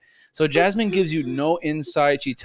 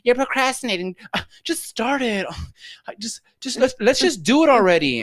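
imitating impatient cohost; 9 semitones higher than usual. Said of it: "And you're like".

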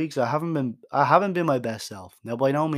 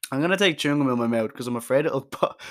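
laughing; 4 dB louder, faster than usual. Real, not acted. Laughs while removing gum.

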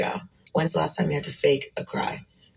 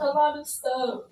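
put-on high whimpering baby; whiny fake crying; 10 semitones higher than usual. Girlfriend whimpers to boyfriend, high and whiny. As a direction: whimper it like a sulking child. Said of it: "handle these adults like children".

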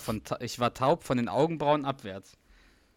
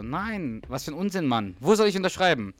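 rising higher, loud at the end, eager; euphoric; 4 semitones higher, 3 dB louder than usual. Retold or imitated. Doug eagerly accepting to be godfather, euphoric. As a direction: brush off the doubt and grab the pen. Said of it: "so euphorisch".

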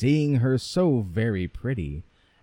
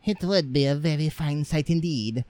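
higher, scornful daughter; mild mock disdain from the rude sister; sneering minx; 5 semitones higher than usual. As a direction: scoff like a spoilt girl. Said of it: "said this ill-bred minx".

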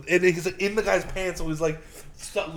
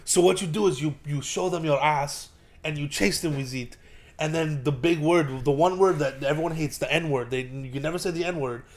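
put-on Israeli accent. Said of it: "he was playing the Israeli".

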